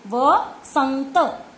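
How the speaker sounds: वसंत drawn out very slowly, the nasal held; slow stretched vasant. Shown as a demonstration. Teacher to pupil, sounding out वसंत very slowly. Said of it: "वसंग, संग".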